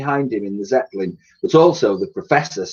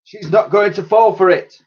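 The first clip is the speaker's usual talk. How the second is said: admiral voice; 9 semitones higher, 5 dB louder than usual. Acted. Admiral's dialogue voice.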